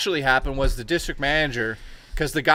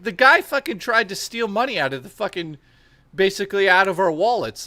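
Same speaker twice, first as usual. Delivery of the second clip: higher, worked-up defense; retold indignant protest; 5 semitones higher, 3 dB louder than usual. Clerk defending himself to the district manager, retold indignation. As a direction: plead your case, pitched up.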